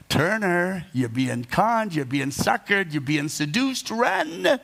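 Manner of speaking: a hint of a nagging inner voice, slow on conned, leaping high on run; lightly voiced warning in his head, urgent at the end. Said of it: "there's this voice in my head going".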